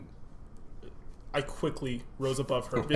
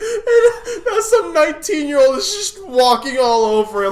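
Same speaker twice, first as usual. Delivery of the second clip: high, crying with laughter, louder; barely getting words out through laughter; laughing to tears; 11 dB louder than usual. Real, not acted. Telling friends the name tag story, crying with laughter.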